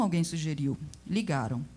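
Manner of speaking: usual speaking voice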